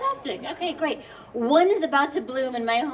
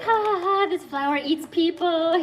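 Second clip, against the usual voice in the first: mock audience laugh; 5 semitones higher than usual. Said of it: "You guys are like".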